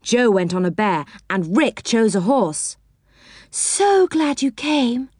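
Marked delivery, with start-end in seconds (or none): 3.5-5.1 high, drawn-out delighted welcome; glad cry. A narrator's reading. Fairy friend greets the children on arrival, glad cry. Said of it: "cried Silky".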